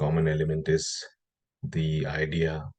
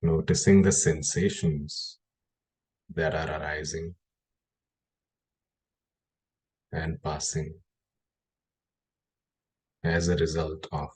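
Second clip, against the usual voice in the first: measured guiding voice with long pauses between phrases; guided meditation. Acted. Meditation teacher guiding listeners to notice the breath, guided meditation. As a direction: lead them into the breath, phrase by phrase, unhurried.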